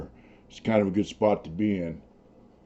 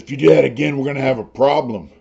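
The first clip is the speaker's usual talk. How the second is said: mildly angry quote, raised and louder; retold mad warning; 4 semitones higher, 6 dB louder than usual. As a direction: imitate an annoyed neighbor's threat. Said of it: "he's all mad".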